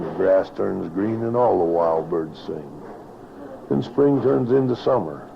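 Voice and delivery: rhythmic rhyming recitation, lightly performed; cowboy poetry. Acted. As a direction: recite it like a tale by the campfire.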